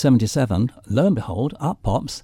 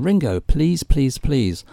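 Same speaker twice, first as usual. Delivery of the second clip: acted plea, higher on the first words; pleading; 4 semitones higher, 4 dB louder, slower than usual. Interviewer begging a musician for an interview, pleading. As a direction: re-enact begging a favour, emphatic on each please.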